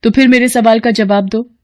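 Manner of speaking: a daughter rushing out the door; young woman Kamya. Acted. Kamya answers in class. (ऊँची आवाज़ में जल्दी-जल्दी, बेटी का अंदाज़)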